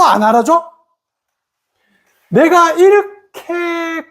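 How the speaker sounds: rising, slowed, put-upon whine; aggrieved complaint. Retold or imitated. The ego complaining nobody acknowledges its effort, aggrieved whine. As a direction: voice the ego's hurt grievance.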